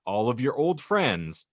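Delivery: a lightly hammed-up scenario reading; dramatic prompt read. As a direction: read the dilemma like a game host. Reads the prompt aloud.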